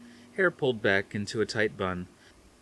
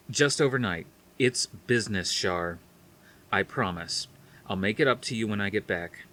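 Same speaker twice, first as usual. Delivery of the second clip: forceful and firm. Acted. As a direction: cut her off with determination. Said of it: "he spoke quickly, forcefully".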